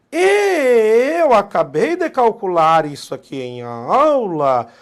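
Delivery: começo alto, agudo e esticado; anúncio arrastado. Real, not acted. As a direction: estique as vogais com força, devagar. Anuncia conta com suspense brincalhão. (anúncio enfático, alto e arrastado)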